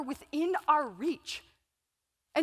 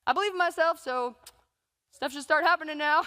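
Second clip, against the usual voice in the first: naive affirmation; 4 dB louder than usual. Retold or imitated. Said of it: "walk into a room and be like".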